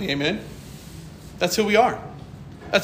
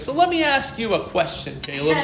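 sly challenge; 4 semitones higher than usual. Retold or imitated. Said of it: "leans his chair back and goes".

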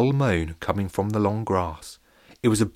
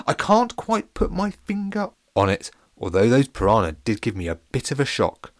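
high, loud posh pancake voice; jolly posh captain, pitched well up; 5 semitones higher, 3 dB louder than usual. Acted. Captain thanks the pirate, high and posh.

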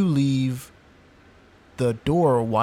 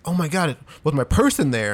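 imitating mild panic, higher pitch; lightly hammed-up alarm; retold freaking out; 3 semitones higher than usual. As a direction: act out someone starting to freak out. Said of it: "she starts freaking out".

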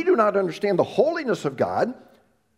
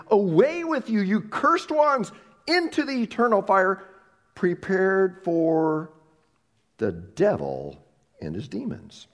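stern judge's pronouncement; 3 semitones higher, slower than usual. Acted. Reading Jesus' judgment words.

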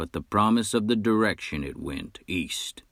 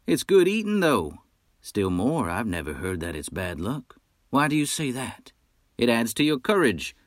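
boastful hunter; 3 semitones higher than usual. Acted. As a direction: brag like a swaggering frontier hunter. Nash defends wolf heart.

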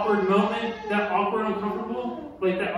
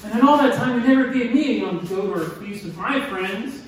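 put-on angry older son; 4 semitones higher, 6 dB louder than usual. Older brother complaining to his father, angry and loud. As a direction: spit out the grievance, voice raised. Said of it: "And he replied".

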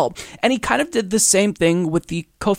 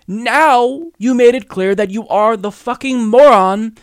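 angry rant; 3 semitones higher, 4 dB louder than usual. Real, not acted. Ranting at Trump.

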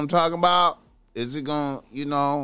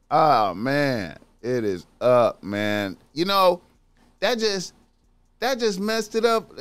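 normal talking voice

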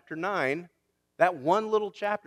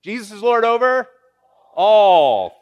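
shouted higher and much louder, all loudest; shouted call; 5 semitones higher, 11 dB louder than usual. Real, not acted. Preacher shouts the line to rouse the congregation. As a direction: shout it out for them to answer. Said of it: "I almost heard you".

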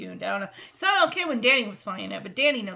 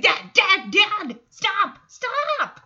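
high, loud mock pleading; imitated daughter shouting for dad's attention; urgent interrupting; 9 semitones higher, 7 dB louder, much slower than usual. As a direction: call over someone to make them stop, rising higher. Retold daughter interrupting absorbed dad.

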